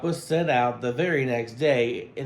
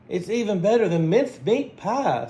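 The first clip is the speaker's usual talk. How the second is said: happy sigh; 5 semitones higher, 3 dB louder than usual. Acted. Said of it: "with a happy sigh".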